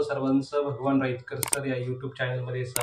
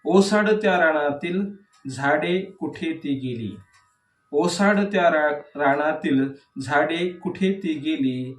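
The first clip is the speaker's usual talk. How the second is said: measured verse reading with falling line endings; declaimed poetry, leaning on each opening word; poem recitation. Acted. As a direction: recite the verse line by line, pausing between phrases. Recites second poem aloud.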